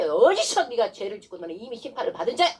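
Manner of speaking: indignant demonstration of scolding the devil; stern, accusing challenge; forceful rebuke. Shown as a demonstration. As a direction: confront the sinner with authority. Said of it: "이러면서 강력하게".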